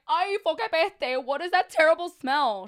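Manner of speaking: put-on old lady crying out at the smell, high and loud; disgusted cry. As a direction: recoil from the stink and cry out. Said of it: "she cried".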